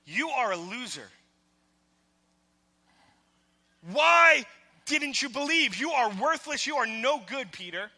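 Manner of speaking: scornful shout building, then dropping off; harsh shaming rebuke of Peter; condemning Jesus voice. Retold or imitated. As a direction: berate him like a harsh judge. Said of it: "hear Jesus telling Peter".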